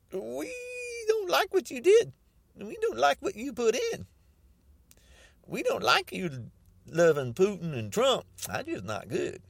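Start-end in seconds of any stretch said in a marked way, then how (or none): 0.1-4.1 high whiny mock sob; hammed-up crying Republicans. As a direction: whine it like a crybaby. Voicing Republicans' complaint.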